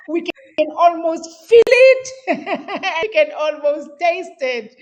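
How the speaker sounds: rising high and loud on feel it; excited build. Real, not acted. Host describing the coach's vision, building excitement. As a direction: swept up in the vision.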